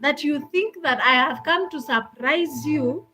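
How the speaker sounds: mildly indignant retelling; retold upset. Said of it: "I was very upset".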